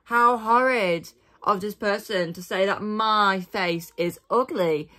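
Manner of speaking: hammed-up mock sobbing; fake-cry it with a wobble. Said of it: "I just went".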